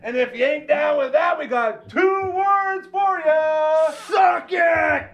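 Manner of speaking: high, slow, booming ring call; announcer shout. Acted. Wrestling entrance shout.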